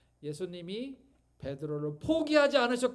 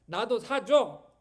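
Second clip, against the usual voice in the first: a slow, louder put-on whine for a cat; mock whiny plea; 2 semitones higher, 6 dB louder, slower than usual. Pastor imitating his wife begging for a cat, mock whiny. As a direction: beg like a spoilt child, hammed up. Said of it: "하면서 앙탈을 부려요".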